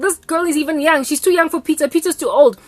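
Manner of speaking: a hint of the son's loud pleading; lightly voiced protesting son. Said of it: "this guy's like".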